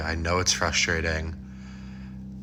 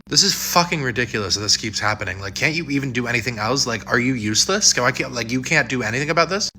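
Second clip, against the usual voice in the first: angry; 3 semitones higher than usual. Acted. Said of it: "I'm sorry I yelled at you".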